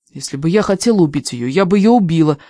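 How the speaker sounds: a touch of heat, pushing back; mildly angry insistence. Acted. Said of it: "сердито сказала я".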